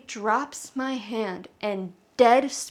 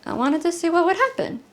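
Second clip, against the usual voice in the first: put-on serene child; 6 semitones higher, 3 dB louder, faster than usual. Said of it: "completely serene".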